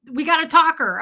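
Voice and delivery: high, loud mock alarm; excited reaction. Retold startled reaction to rant.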